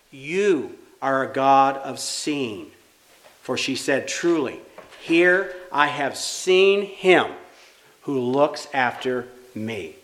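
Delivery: measured, deliberate Bible reading; scripture reading. Acted. Reads scripture aloud.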